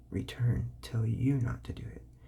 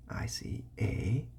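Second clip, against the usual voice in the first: slow modelling; slower than usual. Shown as a demonstration. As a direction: model the phrase slowly. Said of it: "You just make them say a".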